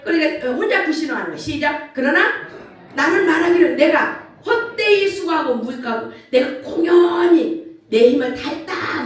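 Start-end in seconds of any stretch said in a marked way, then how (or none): 1.9-9.0 lamenting complaint. Retold or imitated. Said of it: "막 이러는 거야".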